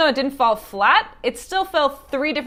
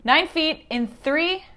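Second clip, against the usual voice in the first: called-out countdown; 3 semitones higher, much slower than usual. Real, not acted. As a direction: call each number out clearly. Calling out drop countdown.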